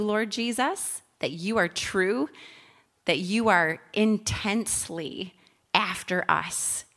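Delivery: spoken prayer. Real, not acted. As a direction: pray aloud for the group, lingering on key words.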